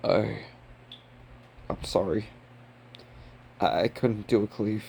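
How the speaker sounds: low, quiet, halting apology; lightly acted, hesitant and apologetic; subdued apology. Boy apologizing to Sukuna for failing the cleave, subdued.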